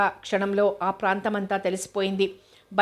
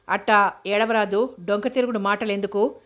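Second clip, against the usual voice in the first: irritated. Acted. Kittigadu answering the young man's teasing, mildly irritated. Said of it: "చిరాగ్గా అన్నాడు కిట్టిగాడు".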